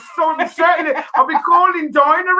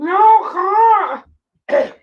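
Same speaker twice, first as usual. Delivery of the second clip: distressed cry; 3 semitones higher, much slower than usual. Real, not acted. Mouth burning from chili.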